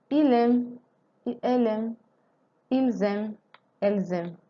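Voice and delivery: ils aiment with a z liaison against il aime; liaison contrast. Shown as a demonstration. Teacher contrasts singular and plural for students. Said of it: "So you notice something?".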